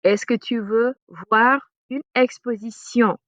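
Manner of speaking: slow, clear question; careful French. Shown as a demonstration. Teacher models an invitation in French, slowly.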